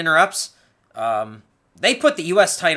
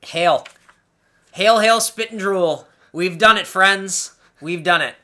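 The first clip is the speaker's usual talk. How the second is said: mock proclamation; 5 dB louder than usual. Celebrating reaching the episode.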